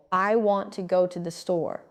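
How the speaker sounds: WANT, GO and STORE stressed, small words light; stress on content words. Shown as a demonstration. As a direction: punch want, go, store and glide over the rest. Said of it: "Stressed, want, go, store".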